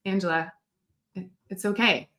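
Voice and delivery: calm an upset client down softly; gently reassuring. Acted. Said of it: "someone in your corner being like".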